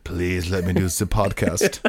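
slow plea in a shaky-attempt Danish accent, slipping into German; badly faked Danish accent, drifting German; botched Danish accent. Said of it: "You just did Lars's dad".

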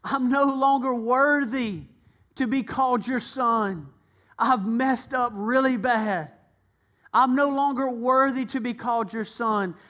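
son asks his father to take him back; mild repentant plea. Acted. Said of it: "And he said".

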